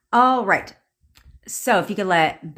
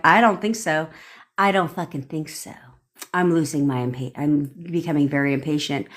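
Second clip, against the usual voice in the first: controlled impatience, dropping lower as it goes; impatient; 3 semitones lower than usual. Shown as a demonstration. Coach voicing someone losing patience with their person, impatient. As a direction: let patience run out, pitch sinking steadily. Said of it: "with an impatient tone in your body".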